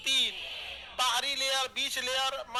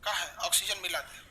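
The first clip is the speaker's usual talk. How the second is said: lazy heart voice; 7 semitones lower, 5 dB quieter than usual. Retold or imitated. Heart voiced asking lungs.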